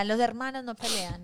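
"Los hermanos no pelean" in a mild mock yell; retold dad yelling. Dad scolding his daughter while hitting her, in a mild mock yell. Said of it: "me daba y me daba y me decía".

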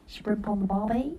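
Australian attempt that comes out London; mock Australian accent; failed Australian accent. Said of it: "I just sound like some London geezer".

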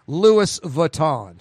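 slow laughing Louis Vuitton. Shown as a demonstration. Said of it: "Only you and Johnny Cochran say Vuitton".

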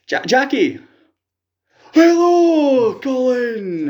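high, put-on caller voice of Jackie; host switching into a high caller voice. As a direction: slip into the fan caller on the phone.

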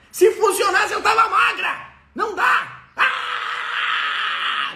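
mock despair ending in a groan; resigned dieter. Inner voice of dieting woman.

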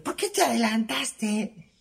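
high, drawn-out mock whine; whiny reproach. Reproach to the one who went ahead, high mock whine. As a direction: stretch it into a high comic complaint. Acting out complaint to himself left behind.

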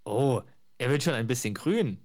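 high, loud excited joking; euphoric. Retold or imitated. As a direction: blurt it out gleefully, pitch leaping up. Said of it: "Und wird dann so euphorisch".

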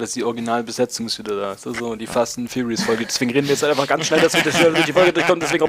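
fast, wired rush; rattling it off over-caffeinated; too much caffeine. Real, not acted. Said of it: "Ich hab zu viel Kaffee getrunken heute". (zu viel Kaffee, hastig)

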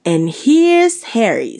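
a big man pleased to see him; friendly giant. Acted. Giant greets Harry.

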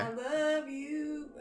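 slow whispered movie line; movie quote whisper. Retold or imitated. Quoting a movie line, slow whisper. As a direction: breathe it like a romantic film. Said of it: "See that one?".

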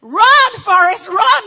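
mock panic, run Forrest run; alarmed retreat. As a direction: shout it like backing away fast. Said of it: "the other person is like".

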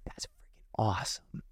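whispered, voice dropped right away; under-the-breath whisper; hushed retold reaction. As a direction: whisper it as if quietly impressed. His awed reaction, retold.

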